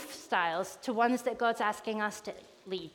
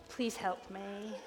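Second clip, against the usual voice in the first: soft, slow little plea; small, subdued prayer for help; quiet plea; 5 semitones lower, 13 dB quieter, slower than usual. Acted. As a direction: plead softly and slowly, lower. Acting Jonah's prayer, pleading.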